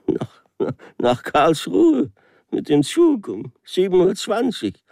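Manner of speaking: near tears, begging to be understood; stranded traveller answering the official, sobbing in despair; despairing sob. Acted. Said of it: "schluchzte ich verzweifelt".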